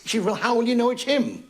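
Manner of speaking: lightly imitated music-hall droll telling a war routine; a hint of an old stand-up comic's storytelling; Rob Wilton. Comedian quotes a great droll's husband-and-wife war joke, lightly imitated comic. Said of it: "must have been Rob Wilton, when he said".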